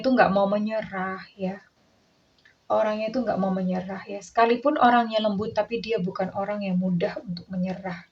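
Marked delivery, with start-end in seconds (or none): 5.5-8.0 unvoiced whisper of determination. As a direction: whisper it like a secret. Soft emphasis on not giving up. (berbisik penuh keyakinan)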